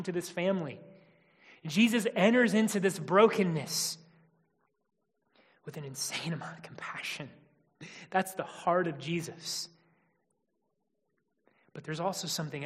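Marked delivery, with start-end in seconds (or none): 5.6-7.3 hushed. Real, not acted. Preacher dropping to a hush.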